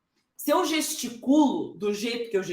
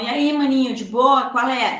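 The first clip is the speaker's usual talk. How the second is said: slangy buddy greeting; 5 dB louder than usual. Retold or imitated. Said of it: "Você vai tá falando assim".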